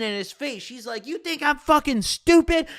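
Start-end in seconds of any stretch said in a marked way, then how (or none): 1.1-2.7 high-pitched imitation of a screaming girlfriend; mock scream. Angry girlfriend confronting her cheating boyfriend, mock scream. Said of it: "she just starts screaming".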